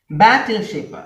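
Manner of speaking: ബാറ്റിൽ ഷിപ്പ് with a high first syllable; first-syllable stress. Shown as a demonstration. Teacher showing unchanged stress, first syllable of ബാറ്റിൽ ഷിപ്പ് punched. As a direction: lean hard on the start of ബാറ്റിൽ ഷിപ്പ്. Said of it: "first syllable ആണ് stress".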